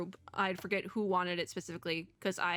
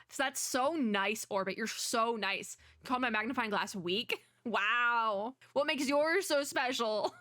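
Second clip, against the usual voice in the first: drawn-out sarcastic indignation; mock offended; slower than usual. Detective Frog stung by insult to magnifying glass, mock offended. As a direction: stretch the words in wounded mock offence.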